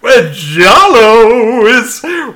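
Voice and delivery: put-on hammy stereotypical Italian accent, drawn out; fake Italian accent. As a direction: stretch it in a cartoon Italian accent. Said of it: "bullshit fake Italian stereotypical accent".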